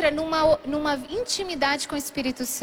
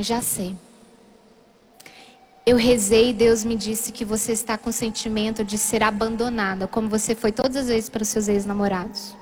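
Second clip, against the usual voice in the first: lower, measured reassurance; calm, understanding; 6 semitones lower than usual. Retold or imitated. Boyfriend hugs her and explains, calm understanding. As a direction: lightly voice someone calmly explaining.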